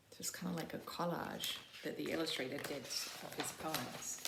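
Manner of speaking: soft whisper aside; whispered comment. Real, not acted. Teacher whispering about the collage, hushed.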